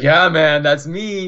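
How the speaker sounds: a light, casual imitation of Big D; imitating Big D. Player quoting Big D's reply in a light imitation. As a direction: toss it off the way Big D says it. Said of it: "That's how he sounds too".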